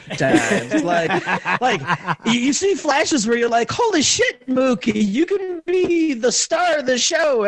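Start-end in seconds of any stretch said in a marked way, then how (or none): 3.7-7.5 sudden high shout of amazement; amazed shout. Retold or imitated. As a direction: burst out in excited disbelief. Retold amazed reaction to teammate.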